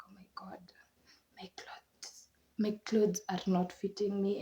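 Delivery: soft, near-whispered dismay that fades into a sigh; dismayed hush. Retold or imitated. New mother to herself over clothes that no longer fit, hushed dismay. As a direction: breathe it out as a private lament.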